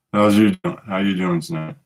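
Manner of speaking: distant tinny mic sound; like talking through a wall; far away. Real, not acted. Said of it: "You sound so far away".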